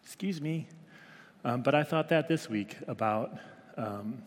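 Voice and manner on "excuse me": put-on indignant toddler. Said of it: "or, like".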